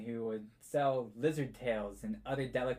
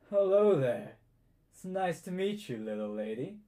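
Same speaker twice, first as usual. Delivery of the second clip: a lightly voiced suave minister, higher and louder; charming minister; 4 semitones higher, 4 dB louder than usual. Minister greeting the girl, lightly voiced and suave. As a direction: greet her like a smooth-talking official.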